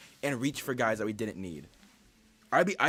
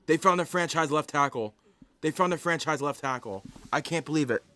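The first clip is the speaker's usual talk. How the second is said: excited; 4 dB louder than usual. Real, not acted. Reacting to a great pick.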